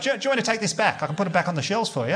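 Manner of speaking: a lightly voiced helpful cashier. Cashier politely offers to take the items back, high and sweet. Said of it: "She's like".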